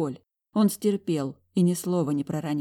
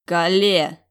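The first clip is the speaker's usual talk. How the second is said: loud snarled name; growled name thrown back in anger; angry bark; 7 dB louder than usual. Acted. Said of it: "рявкнул он зло в ответ".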